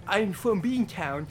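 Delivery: slow, put-on Boston accent on I'm from Beantown; mocking Boston accent. A podcaster mocks his cohost's bad Boston accent to a stranger. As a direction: drag it out like a bad Boston imitation. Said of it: "you did that accent around town".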